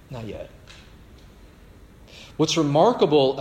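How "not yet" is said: "Not yet" again, much softer, almost breathed; fading echo. Shown as a demonstration. Preacher echoing his warning, fading to a hush. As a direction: let "Not yet" fade to nearly nothing. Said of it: "not yet repeated".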